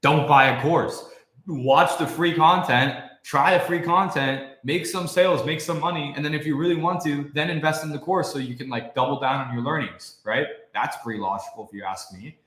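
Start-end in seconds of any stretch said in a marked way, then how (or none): 0.0-10.2 slow emphatic advice. Retold or imitated. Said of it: "me saying, like".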